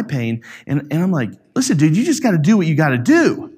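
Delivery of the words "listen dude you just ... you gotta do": mildly worked-up pep talk; elevated dad, retold. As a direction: imitate a dad getting heated, pushing his point. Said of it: "I started getting elevated".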